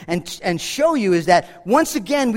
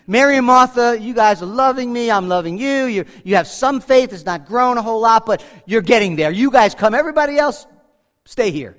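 playful imagined Jesus; 4 dB louder than usual. Retold or imitated. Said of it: "I would have said".

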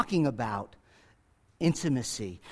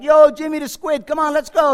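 loud, high mock Italian-American street call; hollering for a sheep like a New York Italian wiseguy; Italian shepherd voice; 9 semitones higher, 8 dB louder than usual. Pastor imagining an Italian shepherd calling his sheep, loud mock Italian-American accent. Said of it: "if this was an Italian shepherd".

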